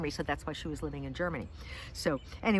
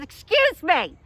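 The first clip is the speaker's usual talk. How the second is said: high-pitched mock indignation; loud, puzzled yell; 13 semitones higher, 14 dB louder, much slower than usual. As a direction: imitate someone shouting through a mask. Acted deli man mishearing her.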